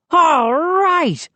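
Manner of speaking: high whooping cheer; exclaimed. A narrator's reading. High triumphant whoop. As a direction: Moose celebrates breaking his record, whooping. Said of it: "Moose exclaimed".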